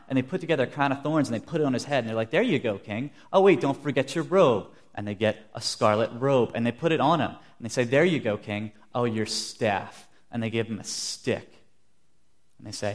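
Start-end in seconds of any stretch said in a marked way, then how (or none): 2.3-4.7 lightly acted mocking soldier; mock helpfulness, getting louder; making fun. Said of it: "they make fun of him". 7.8-10.1 mild mock deference; lightly acted soldier's taunt; making fun. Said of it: "they make fun of him".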